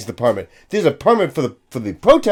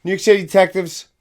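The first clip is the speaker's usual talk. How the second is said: slow, higher, lightly voiced cop at the door; detective at the door; 3 semitones higher, slower than usual. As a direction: drawl it out like a detective knocking. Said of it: "a guy walking up to your door going".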